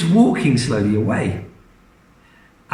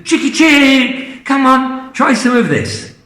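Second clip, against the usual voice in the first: coaxing the hen; 10 semitones higher, 3 dB louder than usual. Acted. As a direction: lure the hen gently to the spoon.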